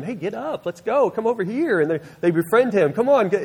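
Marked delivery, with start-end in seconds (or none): 0.0-1.8 higher-pitched, urging crowd voice; coaxing, raised-pitch call; encouraging. Retold or imitated. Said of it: "they encourage him". 2.9-3.4 high, louder urging call; encouraging. Retold or imitated. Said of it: "encouraged him".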